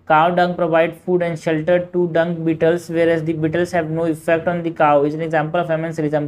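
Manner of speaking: slow, even question reading; measured textbook read-aloud. Acted. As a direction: read the exam question out slowly. Reading out a statement.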